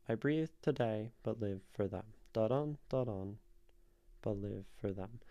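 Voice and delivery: "Da-dun, da-dun" with the weight on each "dun"; iambic scansion. Shown as a demonstration. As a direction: beat out "I breathe today, but live for them" as unstressed-stressed pairs. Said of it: "an iambic form".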